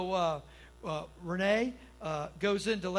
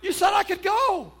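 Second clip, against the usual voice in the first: much higher and louder mock outrage; husband imitating his wife scolding him from the delivery bed; wife's angry retort; 13 semitones higher, 13 dB louder than usual. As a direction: play the wife in labor, furious he was gone. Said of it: "she's looking at me like".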